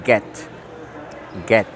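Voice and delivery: get, short e as in Portuguese é; get with open e. Shown as a demonstration. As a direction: get said with a plain e vowel. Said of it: "pronúncio de E mesmo".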